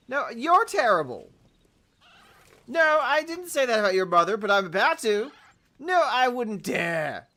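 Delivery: high, loud bickering with the birds; comic shouting match. Real, not acted. Player bickering loudly with chickens, mock outrage. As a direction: yell back like a petty argument.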